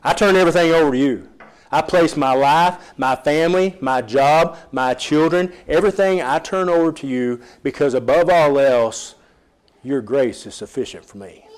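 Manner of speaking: earnest prayer, pleading then surrendering; heartfelt prayer. Pretend. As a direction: pray it out, laying everything down. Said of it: "Look at God and pray".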